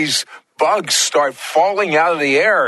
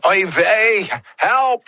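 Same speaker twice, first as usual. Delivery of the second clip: high, comically alarmed plea; hammed-up distress, pitched way up; mock cry for help; 7 semitones higher, slower than usual. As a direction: cry out in playful panic. Host jokes a cry for help.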